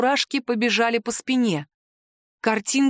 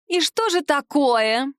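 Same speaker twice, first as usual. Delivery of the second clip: loud; 5 semitones higher, slower than usual. Acted. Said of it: "громко произнесла девица".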